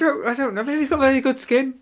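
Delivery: high, giggly reply; laughing. Real, not acted.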